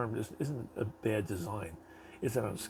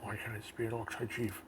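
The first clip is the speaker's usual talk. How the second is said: whiny orc chief; 4 semitones higher than usual. Pretend. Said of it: "He's like".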